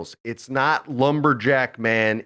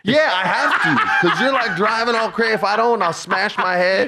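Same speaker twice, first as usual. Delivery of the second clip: higher, laughing complaint; 9 semitones higher than usual. Real, not acted. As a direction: laugh through it.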